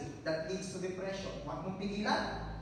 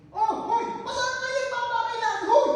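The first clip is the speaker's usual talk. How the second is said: hammed-up shout across a battlefield, louder and higher, with a laugh; mock soldier shouting; 10 dB louder than usual. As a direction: call out over gunfire like a naive soldier. Mock soldier walking into gunfire.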